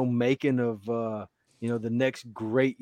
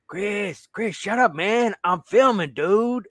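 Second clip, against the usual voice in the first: high, urgent hissed scold; mock hushed scold; 9 semitones higher, slower than usual. Filming friend scolding the interrupter, high and urgent. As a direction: shush a buddy who is ruining the take. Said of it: "He's like".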